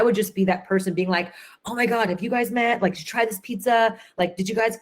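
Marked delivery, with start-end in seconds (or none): 1.6-4.8 higher, bubbly party host chatter; gushing hostess. Retold or imitated. Hostess welcoming guests at her dinner party, gushing. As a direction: bounce from guest to guest, delighted.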